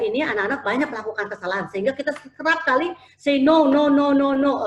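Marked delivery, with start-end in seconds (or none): 3.1-4.7 repeated no. Retold or imitated. Mocking constant no to kids.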